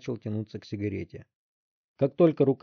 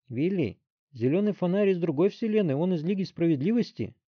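objecting; 7 semitones higher than usual. A narrator's reading. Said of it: "возразил Рой".

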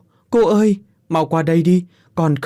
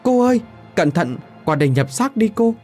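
high, urgent plea; 10 semitones higher than usual. A narrator's reading. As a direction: hurry her, voice pitched up. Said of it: "Giọng Phúc thúc giục". (Phúc thúc giục cô, giọng cao gấp gáp)

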